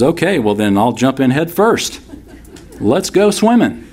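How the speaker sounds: eager swing. Acted. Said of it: "notice how he swings".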